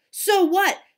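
loud, high defiant jeer; scornful dismissal. A narrator's reading. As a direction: brush her off scornfully. Boys brushing off her protest.

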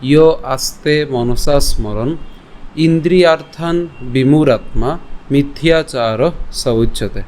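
slow, measured Sanskrit verse reading; slow verse recitation. Shown as a demonstration. Teacher slowly recites the verse to the class. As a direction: recite each word slowly and clearly. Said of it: "আজকের শ্লোকটি হলো".

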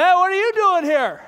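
put-on loud, high drunken greeting; imitating the drunk seatmate calling out; drunk man. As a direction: boom it right in his face like a drunk. Drunk man in his face.

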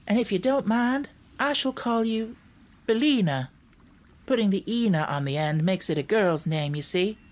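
put-on lilting girl character, politely explaining; Dorothy, earnest girl. Narrator voices Dorothy.

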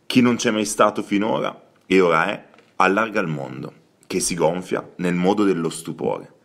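a lightly dramatic, noir-flavoured literary reading; understated noir narration; crime-novel reading voice. Acted. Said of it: "la tua voce da romanzo criminale".

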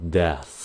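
"deaths" with a clear th followed by a final s; pron demo. Shown as a demonstration. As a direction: say both th and s at the end of "deaths". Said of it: "Phát âm rõ nè".

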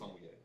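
sommelier said suh-mwee-AY, with a W glide and no L; own learned pronunciation. Shown as a demonstration. Showing the way first heard, sommelier as suh-mwee-AY. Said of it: "that's the way I say it".

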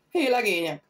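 loud call that demands silence; commanding call. Acted. The weapons master silences the rowdy men with a stern call. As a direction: silence the room with authority. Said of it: "szólt olyan hangon, mely egyszeribe csöndet parancsolt".

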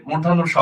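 "মূর্ধন্য স" said distinctly as a model; standard pronunciation. Shown as a demonstration. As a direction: pronounce the letter name "মূর্ধন্য স" carefully for learners. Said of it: "এটার উচ্চারণ হবে".

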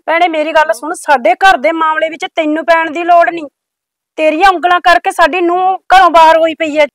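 mother-in-law scolding the neighbour, loud and angry. Acted. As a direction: tell her off sharply.

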